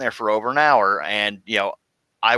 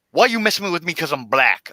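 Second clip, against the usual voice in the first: imitating the woman; 7 semitones higher than usual. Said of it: "First words out of her mouth".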